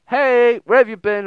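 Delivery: high, loud gushing hello; excited friend. Acted. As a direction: burst in like an eager best friend. Voicing friend's excited text.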